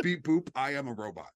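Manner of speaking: even machine gun syllables, second take; robot voice. Retold or imitated. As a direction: beep boop like a cheap TV robot. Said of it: "that is this".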